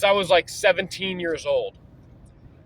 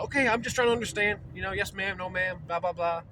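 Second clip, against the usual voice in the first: mock polite; 6 dB quieter than usual. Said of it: "I'm still very polite".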